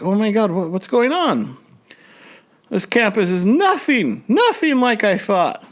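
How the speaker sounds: high, panicked disbelief; freaked-out new grad lost on the way to graduation; upset panic. Retold or imitated. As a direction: blurt it out in a rising panic. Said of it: "I was upset".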